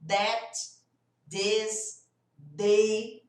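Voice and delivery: "That", "this", "they" all with a hard D; wrong D for TH. Shown as a demonstration. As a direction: mimic the D shortcut. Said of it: "colocou um som de D". (com som de D errado)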